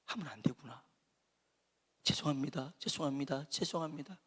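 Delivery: a timid man apologizing to the crowd; timid apology. Retold or imitated. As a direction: back down meekly, a touch ashamed. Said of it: "소심한 사람이라면".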